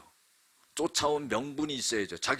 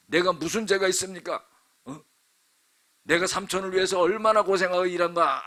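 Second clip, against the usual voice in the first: higher, louder indignant protest; furious rebuke; 7 semitones higher, 4 dB louder than usual. Acted. Jacob rebuking his uncle, outraged and loud. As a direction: tear into him, outraged. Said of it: "노발대발하면서 막 화를 내는 거예요".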